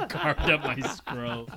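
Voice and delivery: slow, laughing echo; laughing repeat. Real, not acted. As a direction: savor the phrase through laughter. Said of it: "repeating it laughing".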